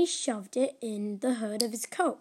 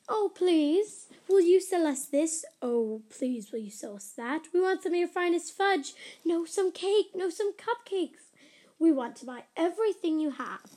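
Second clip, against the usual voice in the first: eager customers; 3 semitones higher than usual. Acted. Customers begging at the counter.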